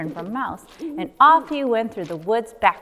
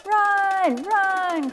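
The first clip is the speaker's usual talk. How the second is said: much higher urgent run run; panicked cry; 11 semitones higher than usual. Acted. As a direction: cry out to flee. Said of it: "cried Hedgehog".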